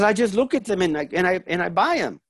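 lightly voiced mom justifying herself; explaining mother. Mother tells her son how she shops, explaining. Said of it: "She goes".

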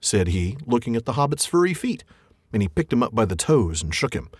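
reading the troll scene aloud with voices; story reading. A narrator's reading. Podcast host reading the troll scene to his co-host, story narration. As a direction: read it like a storyteller at the fireside.

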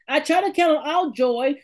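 preached out with force on count; emphatic. Shown as a demonstration. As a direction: call it out like a preacher. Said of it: "repeats it with force".

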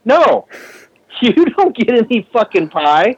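high, slow indignant refusal; pissed off. Retold or imitated. Telling asshole friend off over the pie, pissed off. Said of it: "I was pissed off".

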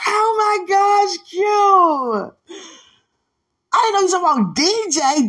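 high, loud, thrilled squealing; excited squeal. Retold or imitated. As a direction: gush over the news, high and loud. Friend's excited reaction retold.

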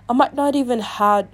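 a stray British accent creeping into the reading; accidental British accent. Real, not acted. Reader slipping on a Reddit confession, random British accent. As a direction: slip briefly into a British accent. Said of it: "where did the random British accent come from".

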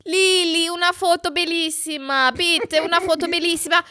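high, pleading Italian voicemail; Giovanni. Retold or imitated. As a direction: imitate an Italian begging on a mailbox message. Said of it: "hat er gesagt".

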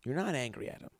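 soft, private note from the director; hushed director aside. Retold or imitated. Director giving a quiet note off to the side. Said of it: "director pulls me aside".

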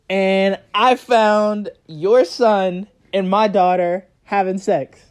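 slow, deliberate phone voice of a mom; retold stern mom. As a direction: break the news slowly, weighing each phrase. Acted mom delivering grave news.

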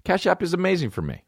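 upbeat sponsor read, straight to listeners. Acted. Host reading a sponsor spot to listeners, upbeat ad read. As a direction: sell it like a podcast host ad.

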